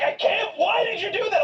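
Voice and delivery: high-pitched mock outrage; imitating someone mad. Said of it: "he was so mad".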